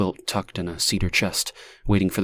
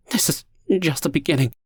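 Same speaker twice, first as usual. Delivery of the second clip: higher, resigned doom; resigned dread; 7 semitones higher, faster than usual. A narrator's reading. Stranger telling Lonnie what is coming, resigned. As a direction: let it fall with resignation. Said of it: "looked resigned".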